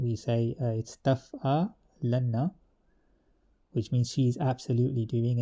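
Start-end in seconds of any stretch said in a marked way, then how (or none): 1.0-2.5 taf'alanna said slowly, with the doubled nn held long; heavy noon emphasis. Shown as a demonstration. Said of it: "The hev-, heavy noon emphasis version".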